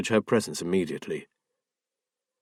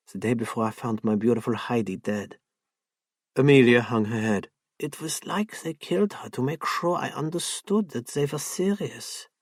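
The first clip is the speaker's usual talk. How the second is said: grieving, hushed. Acted. Amelia grieves her dead Heidi.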